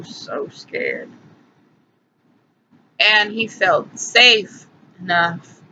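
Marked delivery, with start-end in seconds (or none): 0.0-1.1 hushed whisper. Real, not acted. Hushed over the scared baby possum.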